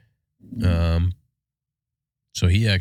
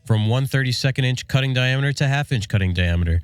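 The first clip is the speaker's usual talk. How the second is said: ad read; 3 semitones higher than usual. Acted. Host reads sponsor ad.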